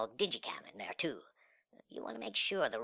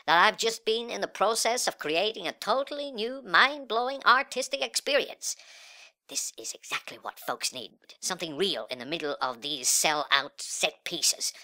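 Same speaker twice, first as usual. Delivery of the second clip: higher, louder, grandiose sales spiel; hyped-up art pitch; 7 semitones higher, 6 dB louder than usual. Acted. Hostage-taker pitching his art to the phones listening in, hyped up. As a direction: sell it big to a listening crowd.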